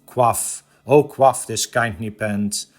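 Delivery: measured, rhythmic verse reading; solemn cadence with a hushed final word; poem recitation. Acted. Recites The Raven stanza by stanza.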